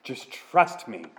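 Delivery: God pleading slowly and softly; slow soft plea. Acted. God gently urging thirsty Israel to trust him, slow and soft. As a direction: ease the words out gently, slowly.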